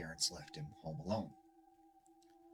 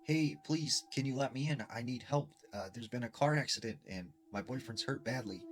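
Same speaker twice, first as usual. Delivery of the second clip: put-on higher, louder pleading young girl; young girl's voice; 4 semitones higher, 3 dB louder than usual. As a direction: beg like a frightened girl outside. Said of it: "this young girl's voice respond".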